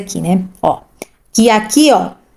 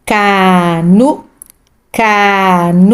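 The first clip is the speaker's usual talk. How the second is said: "canudo" drawn out syllable by syllable; slow syllables; 3 semitones lower, much slower than usual. Shown as a demonstration. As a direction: sound out "canudo" for a child. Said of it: "sílabas". (sílaba por sílaba)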